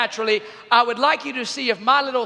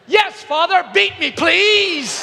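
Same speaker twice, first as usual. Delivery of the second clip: mock pleading; 5 semitones higher, slower than usual. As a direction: beg sweetly to mock the question. Sarcastic reply to parent.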